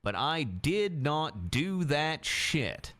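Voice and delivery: reading his own crime story aloud; story narration. Acted. Reading his crime book aloud to the court, in a story voice. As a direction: narrate it like an audiobook. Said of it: "you should narrate books".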